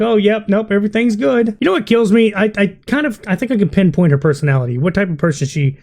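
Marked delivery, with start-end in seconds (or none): 0.0-1.6 mock breezy dismissal. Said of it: "acting like".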